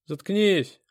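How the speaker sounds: loud, high, abrupt order; cutting someone off. A narrator's reading. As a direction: cut the victim off sharply. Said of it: "оборвал меня бык". (резко обрывая)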